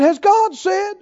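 defiant sneer. Retold or imitated. Preacher voicing the serpent questioning God, defiant.

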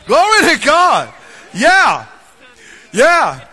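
loud, slow exclamation of praise; joyful loud praise. Real, not acted. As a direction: shout praise to God.

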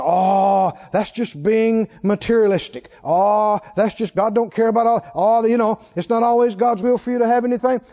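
mock critics. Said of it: "and they say".

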